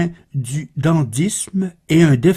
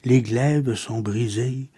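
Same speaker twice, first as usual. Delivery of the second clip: measured, subdued poem reading with pauses; solemn, restrained verse reading; poetry recitation; 3 semitones lower, 3 dB quieter than usual. Acted. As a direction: recite verse softly and evenly, letting each line settle.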